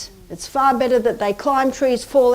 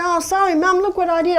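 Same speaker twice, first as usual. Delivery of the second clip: lightly voiced boy, higher, apologetic; a hint of a boy saying sorry; boy's apology; 7 semitones higher, faster than usual. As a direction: play the sheepish son owning up. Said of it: "He said".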